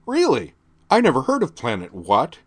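high, loud mock-puzzled question; fake puzzlement. A narrator's reading. Teen girl mocking the sergeant, fake puzzled sarcasm. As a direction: play dumb sarcastically. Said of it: "obviously fake look of puzzlement".

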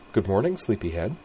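gentle teasing morning greeting; soft and warm. Acted. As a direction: coax him awake softly. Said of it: "in a voice that was as soft and warm".

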